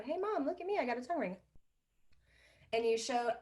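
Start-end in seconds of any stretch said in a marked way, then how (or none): 0.0-1.4 put-on tongue ring kid. Shown as a demonstration. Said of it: "pretend like you just got a tongue ring and you go".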